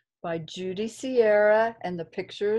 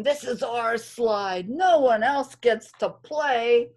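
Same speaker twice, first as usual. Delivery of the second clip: snorting rhinos; 2 semitones higher, 4 dB louder than usual. Acted.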